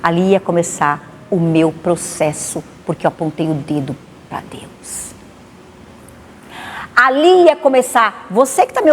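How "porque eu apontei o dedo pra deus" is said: whispered confession. Real, not acted. Confessing she blamed God.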